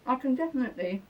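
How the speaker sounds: talking through a mouthful of dessert; words round a bite of food; mouth full. Real, not acted. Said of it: "talking with my mouth full".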